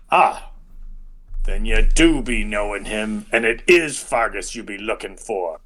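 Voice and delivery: put-on guard, easing off; satisfied guard voice. Guard accepts visitors and tells his men to relax, character voice. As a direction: recognise the visitors, then call off the men. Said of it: "all of a sudden you hear".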